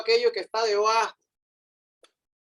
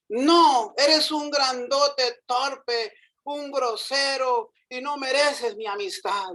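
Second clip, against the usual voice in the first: higher and slow, scolding insult; angry ant; 4 semitones higher, slower than usual. Acted. Ant scolds the clumsy elephant, slow angry rebuke. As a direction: drag out each insult at him. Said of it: "gritó la hormiguita".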